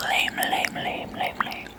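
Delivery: very soft whispered repeats, run together; fading whispered echo. Real, not acted. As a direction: whisper it over and over, dying away. ASMR trigger word repeated, fading.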